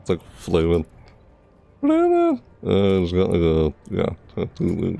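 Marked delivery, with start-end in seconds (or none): 1.8-2.4 high, loud exclamation; excited. Real, not acted. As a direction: burst out with it. Reacting to skin detail.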